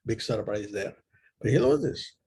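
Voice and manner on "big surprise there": dry, understated sarcasm; sarcastic. Real, not acted. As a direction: say it sarcastically, as an offhand aside. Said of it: "I meant sarcastically".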